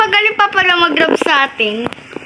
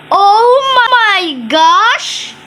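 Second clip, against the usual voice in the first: slow drawn-out gasp; much slower than usual. Real, not acted.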